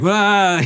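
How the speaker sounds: high, drawn-out "wah"; mock wail of a swirling mind; overwhelmed wail. Comic retelling his scattered mind, high mock wail. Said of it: "so on my mind, I'm like".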